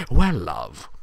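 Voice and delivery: put-on low, old wizard voice; lightly voiced wise old wizard; mock Gandalf saying well love; Gandalf impression. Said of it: "he's like Gandalf".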